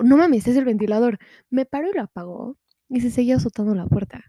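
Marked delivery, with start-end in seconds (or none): 0.0-1.2 louder disbelieving echo of es el ventilador; you can't be serious, es el ventilador; incredulous. Retold or imitated. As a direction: throw es el ventilador back in disbelief. Incredulous repeat of friend's claim.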